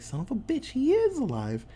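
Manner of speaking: a hammed-up angry cry; mad outburst. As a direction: spit it at the traitor, mock furious. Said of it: "mad at Tom".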